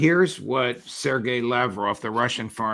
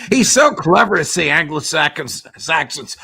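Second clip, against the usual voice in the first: laughing; 5 semitones higher, 8 dB louder than usual. Real, not acted. Host amused by Lavrov's wordplay.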